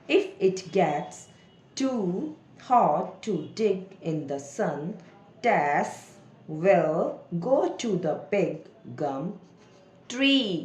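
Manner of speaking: halting model reading with pauses between words; slow word-by-word reading. Shown as a demonstration. Teacher models reading for children, word by word. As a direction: read very slowly, each word set apart.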